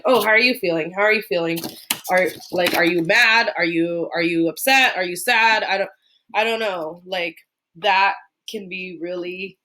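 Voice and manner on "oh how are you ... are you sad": put-on pressing the child with question after question; pushy rapid questioning. An overwhelming adult badgering a student about feelings, pushy. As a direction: fire the questions one after another, crowding the kid. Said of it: "saying, like".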